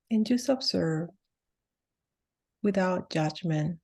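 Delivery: unhurried meditation guide with long pauses; guided meditation. Real, not acted. Healer leading listeners through a grounding holiday meditation, guided meditation voice. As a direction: guide them gently into the body, phrase by phrase.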